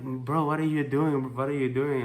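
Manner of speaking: incredulous. Retold or imitated. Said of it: "every time I was like".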